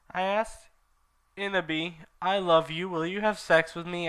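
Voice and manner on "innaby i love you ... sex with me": lovesick villain. Acted. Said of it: "asked Snaketail".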